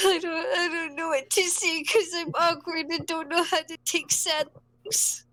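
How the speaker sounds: mildly anxious, unsure inner monologue; anxious, awkward. Retold or imitated. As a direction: replay your own nervous helplessness. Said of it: "sitting there with anxiety".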